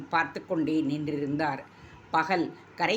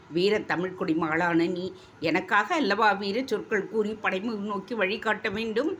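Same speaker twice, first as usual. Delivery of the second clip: a prince pressing his weeping beloved in one breath; anxious prince rushing through his plea; without pausing for breath; 3 semitones higher than usual. Acted. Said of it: "மூச்சு விடாமல் கூறி".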